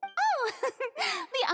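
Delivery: light laugh, then a breezy line; airy laugh. Acted. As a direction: laugh it off and slip away. Breezy exit after tense talk.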